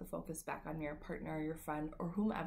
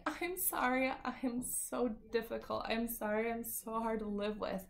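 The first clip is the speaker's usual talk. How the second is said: higher, pleading sorry to husband; self-blaming apology; 3 semitones higher than usual. Retold or imitated. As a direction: overdo the apology, putting yourself down. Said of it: "and instead of saying".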